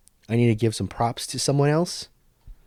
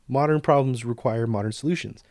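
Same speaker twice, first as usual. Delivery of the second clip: throwaway remark. Retold or imitated. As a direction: say it like a passing aside. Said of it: "he just kinda said it as, like, a throwaway".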